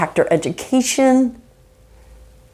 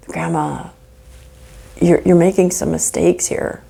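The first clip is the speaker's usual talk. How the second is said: gentle; 3 semitones lower than usual. Acted. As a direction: ease the bad news gently. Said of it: "as gentle with your words as you would be if it was your grandmother".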